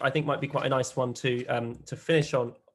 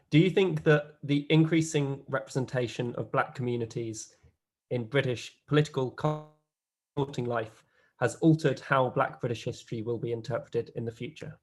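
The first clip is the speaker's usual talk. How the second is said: slightly slower. Real, not acted. Host repeating the question for a panelist, slightly slower. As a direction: question repeated with more pauses. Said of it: "So I'll say it slower".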